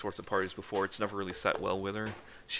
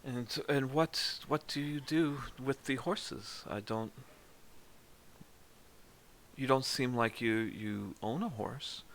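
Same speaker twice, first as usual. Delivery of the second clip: attempted Spanish accent; 3 semitones higher, 3 dB quieter than usual. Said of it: "so Luciana looks and goes".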